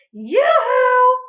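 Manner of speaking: high, loud calling out; shouted yoo-hoo. Acted. Witch Grinch calling to the cow, loud. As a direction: call across the meadow. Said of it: "she shouted".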